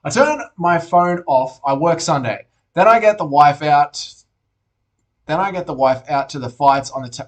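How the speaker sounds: reading aloud slowly, with pauses. Real, not acted. Streamer rereading a viewer's message to understand it, slow reading. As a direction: take the message slowly, piece by piece. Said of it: "let me read this slowly".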